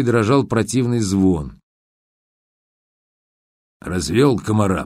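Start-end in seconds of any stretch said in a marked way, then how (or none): 3.8-4.9 grumbling. Acted. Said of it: "проворчал Жихарь".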